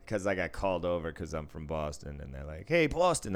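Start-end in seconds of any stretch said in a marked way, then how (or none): 2.7-3.3 high, loud imitated hail; calling out. Irish ladies calling the dealer over, imitated call-out. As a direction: hail someone across the table.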